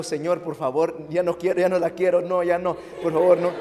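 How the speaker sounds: begging God half-jokingly, rising at the end; desperate prayer. Retold or imitated. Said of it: "estoy orando". (súplica desesperada, medio en broma)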